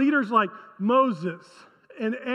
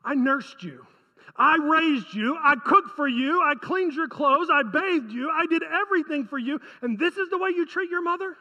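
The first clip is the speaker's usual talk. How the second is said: lightly acted mother, listing her sacrifices in reproach; guilt-trip the child, item by item, ending in an incredulous question; aggrieved mother; 2 semitones higher than usual. Mother reminds her child of all she did, aggrieved. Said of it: "I can just hear a mother saying".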